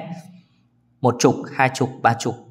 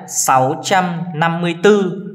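reads the number slowly, a bit higher; 4 semitones higher, slower than usual. Shown as a demonstration. Teacher reading the number slowly to pupils. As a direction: spell out sáu trăm năm mươi tư slowly for the class. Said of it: "Tiếp đến nào".

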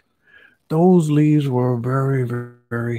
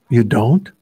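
surprised question; 7 dB louder than usual. Acted. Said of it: "said Alligator".

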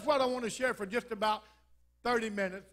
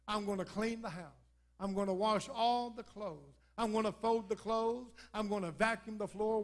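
sympathetic; 3 dB quieter than usual. Retold or imitated. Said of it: "very sympathetically".

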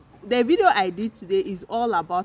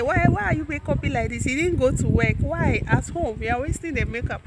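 higher-pitched imitation of a scolding; mock complaint; 6 semitones higher than usual. Vlogger quoting husband just back from work, mock complaining. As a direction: lightly act out a puzzled reproach.

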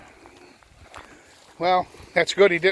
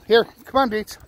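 calling out; 8 semitones higher, 4 dB louder than usual. Real, not acted. Calling the dog.

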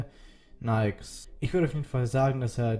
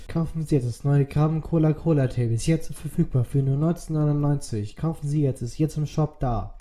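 chipper 1950s ad; 2 semitones higher, 4 dB louder than usual. Pretend. Parody ad for fake tape.

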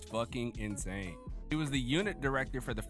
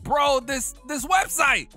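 excited rave; 11 semitones higher, 8 dB louder than usual. Real, not acted. Excited about website.

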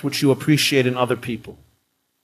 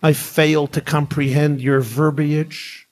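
put-on perfect English accent; 3 semitones higher than usual. Man on plane answering the scolding woman, lightly put-on English accent. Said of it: "said in a perfect English accent".

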